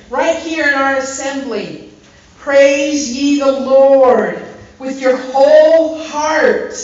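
slow, loud, fervent exhortation; preaching. Acted. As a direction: urge the church to praise. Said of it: "preaching with whole heart".

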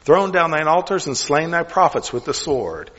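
put-on measured, solemn reading of the old text; scripture reading. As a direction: read it out like scripture in church.

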